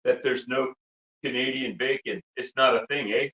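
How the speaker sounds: put-on Canadian hoser accent; lightly hammed-up Canadian accent; funny Canadian accent. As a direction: play a comic Canadian hoser. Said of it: "we're gonna be breaking character".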